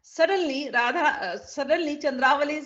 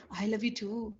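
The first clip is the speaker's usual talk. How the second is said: tender reply; 4 semitones lower, 7 dB quieter than usual. Shown as a demonstration. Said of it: "Krishna will say".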